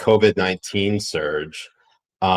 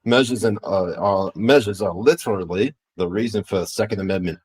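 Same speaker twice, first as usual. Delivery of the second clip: put-on half-hearted Australian accent; badly faked Australian accent; Aussie accent. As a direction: attempt an Aussie accent without fully committing. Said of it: "trying to do a fucking Aussie accent".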